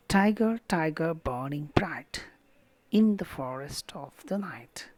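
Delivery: "Tiger, tiger, burning bright in the forest of the night" in strong-weak beats; trochaic stress. Shown as a demonstration. Teacher reading another trochaic line, "Tiger, tiger, burning bright" in strong-weak stress. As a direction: stress the first syllable of each "tiger". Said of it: "stressed followed by unstressed".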